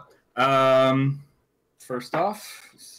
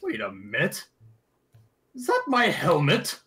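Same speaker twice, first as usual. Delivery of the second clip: dwarf voice; 3 semitones higher than usual. Acted. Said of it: "tilts his head again and is like".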